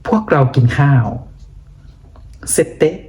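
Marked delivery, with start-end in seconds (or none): 2.6-2.9 "c'était" said carefully as two syllables, say-tay; pronunciation model. Shown as a demonstration. Teacher shows learners how to read "c'était", carefully pronounced. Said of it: "อ่านว่า c'était".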